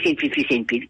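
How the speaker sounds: rejouer en voix bien plus aiguë, câline; voix aiguë pour le chien. Retold or imitated. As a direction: parler au chien d'une voix perchée. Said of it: "je dis". (la maîtresse rassure son chien, voix aiguë câline)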